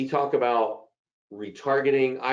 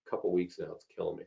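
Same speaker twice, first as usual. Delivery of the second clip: hoarse voice; 4 semitones lower, 4 dB quieter than usual. Real, not acted. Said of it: "my throat's just getting raspy".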